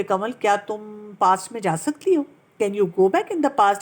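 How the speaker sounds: slow, tender question to herself; gentle self-questioning. Retold or imitated. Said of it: "بہت پیار سے پوچھتی ہوں". (بہت پیار سے، آہستہ سوال)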